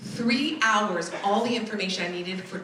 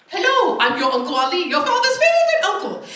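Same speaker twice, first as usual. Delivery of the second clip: much higher, louder warm welcome; excited uncle; 9 semitones higher, 8 dB louder than usual. Retold or imitated. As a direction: greet her like a proud uncle. Relatives calling to welcome her.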